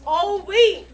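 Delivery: loud, laughing mock author; mocking Kubo voice. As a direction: blurt it out like a lazy author. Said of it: "Kubo realized".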